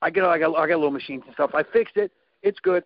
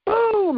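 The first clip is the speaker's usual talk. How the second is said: a sudden high "boom" like a pistol going off; gunshot noise; 13 semitones higher than usual. Retold or imitated. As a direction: pop the word out like a gunshot. Gunshot imitated in gun story.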